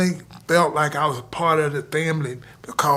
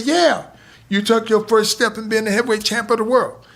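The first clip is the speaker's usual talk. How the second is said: excited coach; 7 semitones higher than usual. Retold or imitated. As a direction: burst in amazed at the kid. Coach praising after the win.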